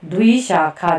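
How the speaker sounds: teacher sounds out द्विशाखा; careful pronunciation. Shown as a demonstration. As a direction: model द्विशाखा distinctly. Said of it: "दो के पाँव में वो लगा है".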